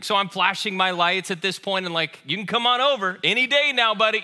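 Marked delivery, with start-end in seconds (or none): 2.2-4.2 sarcastic urging. Retold or imitated. Pastor mocks the driver blocking his lane, sarcastic. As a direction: needle the other driver, half-joking. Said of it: "they're getting a little louder".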